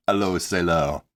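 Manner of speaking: French words said with an English accent; English-accented French for a punning punchline. Shown as a demonstration. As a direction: anglicize it to sound like "hello sailor". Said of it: "with an English accent, it sounds like".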